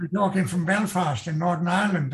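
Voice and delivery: lightly put-on Belfast accent; Northern Irish accent. Shown as a demonstration. Author showing regional accents to interviewer, Northern Irish accent. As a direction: talk as if from Belfast. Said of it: "they talk like that".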